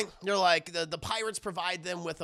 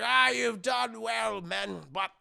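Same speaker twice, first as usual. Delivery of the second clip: pirate captain; 3 semitones higher, slower than usual. Retold or imitated. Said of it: "it's like".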